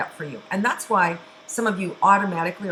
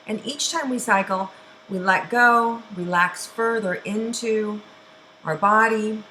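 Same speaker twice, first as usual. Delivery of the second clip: guided meditation. Acted. Teacher guiding a group through cleansing breaths, soothing. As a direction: ease the listeners into each breath, unhurried.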